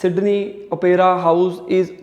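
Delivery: stop-start, slowed, broken into pieces; halting speech. Shown as a demonstration. Tutor showing students how hesitant reading sounds, halting. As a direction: read it haltingly like a nervous test taker. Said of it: "मतलब अगर मैं रुक रुक के बोलूँगा".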